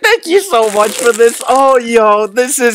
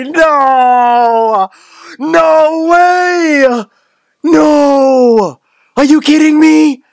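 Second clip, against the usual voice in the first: overwhelmed disbelief; 4 semitones higher, 4 dB louder, much slower than usual. Real, not acted. Overwhelmed opening the gift.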